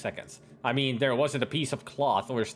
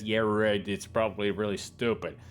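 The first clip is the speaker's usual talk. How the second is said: lower-pitched, grumpy husband; cranky; 5 semitones lower than usual. A narrator's reading. Husband dismisses wife's birthday present, cranky. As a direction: grumble it, dismissive and unimpressed. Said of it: "cranky as usual".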